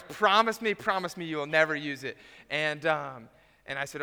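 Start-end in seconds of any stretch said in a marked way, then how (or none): 0.0-2.2 pleading mock insistence. Garage sale lady begging the buyer, loud pleading. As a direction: beg him like a worried seller. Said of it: "She goes".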